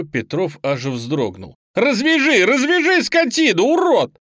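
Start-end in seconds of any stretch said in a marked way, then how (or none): 1.7-4.2 high, loud screech like one possessed; possessed yelling. A narrator's reading. Bound boy raging at his captor, possessed yelling. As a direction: scream as if demons took over. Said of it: "Лёня орал так, будто в него вселились бесы".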